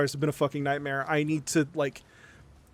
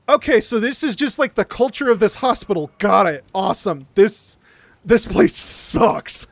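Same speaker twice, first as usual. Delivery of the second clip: sarcastic; 2 semitones higher, 4 dB louder than usual. Retold or imitated. Sarcastic retort to hospital culture.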